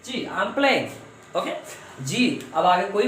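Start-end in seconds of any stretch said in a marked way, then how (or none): 0.2-1.4 slow model sentence. Shown as a demonstration. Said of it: "teacher models sentence".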